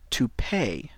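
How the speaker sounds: "To pay" whispered; whispered model. Shown as a demonstration.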